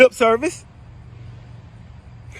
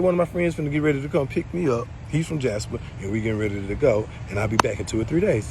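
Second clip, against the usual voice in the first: quoting Layla; 9 semitones lower, 8 dB quieter than usual. Retold or imitated. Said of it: "she come back and said".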